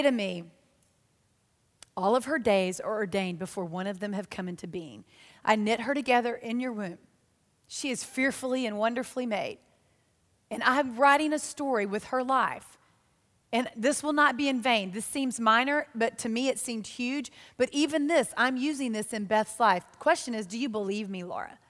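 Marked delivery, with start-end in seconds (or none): 2.0-14.9 voice of the Lord. Acted. The Lord's voice, quieter. 20.5-21.6 much softer, sinking low on Laura; gentle question. Acted.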